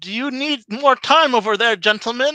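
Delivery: anxious, fretful voice. Voicing a character in a tabletop game, asking the gentlemen, in a worried voice. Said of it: "he says in kind of a worried voice".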